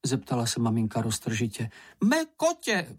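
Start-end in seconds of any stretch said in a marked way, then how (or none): 2.0-2.9 sudden high exclamation; cry out. Acted. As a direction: call out in alarm, pitched high. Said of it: "vykřikl Čenich".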